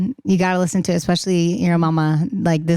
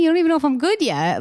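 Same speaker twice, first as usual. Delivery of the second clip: incredulous; 9 semitones higher, faster than usual. Retold or imitated. Disbelief at five-album offer.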